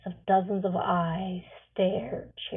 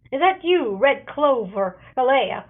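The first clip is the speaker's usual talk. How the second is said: loud, higher call up to the tree; yelling up; 4 semitones higher, 7 dB louder than usual. A narrator's reading. An elder yells up to the lookout in a tree, loud. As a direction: call up into the branches. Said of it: "Farfadet yells up".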